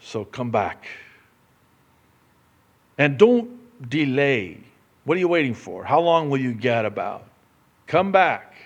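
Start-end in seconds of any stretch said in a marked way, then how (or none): 3.0-8.6 louder pleading exhortation; urgent appeal. Acted. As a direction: call them back home urgently.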